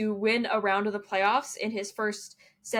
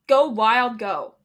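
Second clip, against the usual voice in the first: Regina George; 5 dB louder, slower than usual. Retold or imitated. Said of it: "I had to go Regina George".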